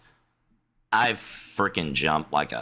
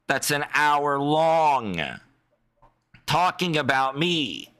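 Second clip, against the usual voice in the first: indignant; 8 semitones higher, slower than usual. Real, not acted. Indignant slow emphatic complaint.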